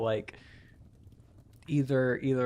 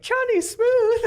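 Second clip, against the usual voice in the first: high, loud showman intro; suave name announcement; 8 dB louder, slower than usual. Acted. She introduces her husband's skeleton with a loud flourish. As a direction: present him like a smooth lounge act.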